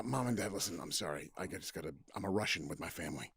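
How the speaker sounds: mock confession. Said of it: "Sean never, but to go that far".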